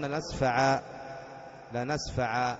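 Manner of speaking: لنسفعا ending on a long aa instead of the n; لنسفعا said lanasfa'aa in pause; pausal alif ending. Shown as a demonstration. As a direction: end لنسفعا on an open aa. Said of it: "إذا أردت أن تقف تقول".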